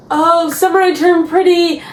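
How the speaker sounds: lightly mimicking a breathless rumor post; mock rumor video. Vlogger mimicking Instagram pregnancy rumor videos, mock announcement.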